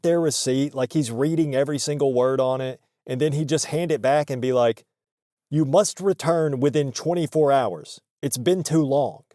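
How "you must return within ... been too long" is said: badly faked Greek accent, robotic; attempted Greek accent. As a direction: stiff imitation with a hint of Greek accent. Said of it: "It sounded more like a robot".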